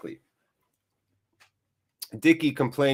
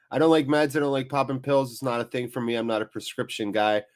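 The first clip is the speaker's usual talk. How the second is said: stuffy, blocked nose; sniffly. Real, not acted. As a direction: talk through blocked sinuses. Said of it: "sorry if I'm all sniffly".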